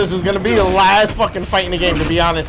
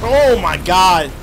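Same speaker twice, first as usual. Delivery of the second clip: hyped shouting; much slower than usual. Real, not acted. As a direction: yell it like you can't believe it. Reacting to a big boss move.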